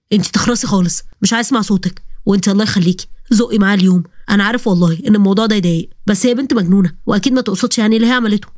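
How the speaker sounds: a man snapping at his sister; angry brother. Acted. Brother Walid scolds sister. (أخ غاضب بصوت رجالي منخفض)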